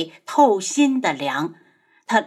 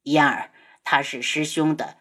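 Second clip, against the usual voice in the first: soothing; 6 semitones lower, 3 dB quieter than usual. A narrator's reading. Senior brother soothing the crying girl.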